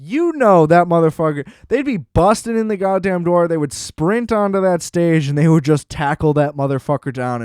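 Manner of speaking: worked-up, incredulous tirade; emphatic ranting. Real, not acted. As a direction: rant it with punchy emphasis. Contrasts real cops with calm scene.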